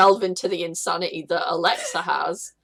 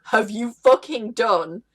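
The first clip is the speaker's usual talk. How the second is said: horrified paladin; slower than usual. Retold or imitated. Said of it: "the paladin going".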